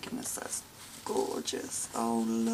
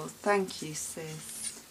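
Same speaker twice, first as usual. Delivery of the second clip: ordinary delivery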